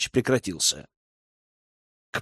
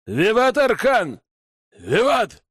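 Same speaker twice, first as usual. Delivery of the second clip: joyful cheer; 6 semitones higher, slower than usual. Acted. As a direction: cheer the hero's name. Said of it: "радостно откликнулись".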